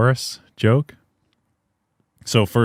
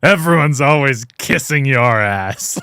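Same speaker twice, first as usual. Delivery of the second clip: put-on drunk slurring; 3 semitones higher, slower than usual. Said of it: "slurring his words".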